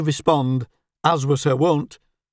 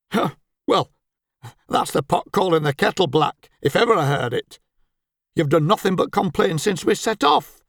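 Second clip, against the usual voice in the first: sneering. Acted. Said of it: "Albert sneered".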